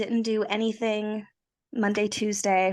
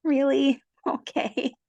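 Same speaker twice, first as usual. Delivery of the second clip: incredulous; 6 semitones higher, 4 dB louder, slower than usual. Retold or imitated. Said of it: "I was like".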